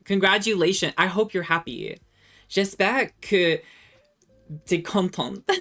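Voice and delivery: loud, high mock congratulations; sarcastic congratulations. Real, not acted. Streamer to chat after being made to speak French, sarcastically congratulating. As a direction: throw it at them like a grudging victory announcement.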